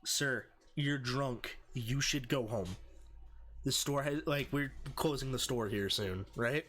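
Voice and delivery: measured, even retold request; composed and matter-of-fact, imitating oneself; very calm. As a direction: calmly talk down a drunk. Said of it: "and very calmly".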